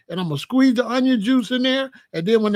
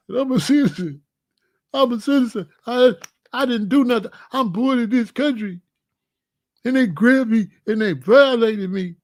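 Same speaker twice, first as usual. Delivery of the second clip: mock victim plea. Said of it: "so I could cry".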